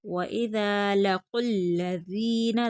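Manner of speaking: slow वइज़ा लकुल्लज़ीना with long ज़ा and ज़ी; drawn out, no whistle. Shown as a demonstration. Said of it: "बगैर सिटी के खींच कर पढ़ेंगे". (वइज़ा लकुल्लज़ीना, बिना सीटी, खींच कर)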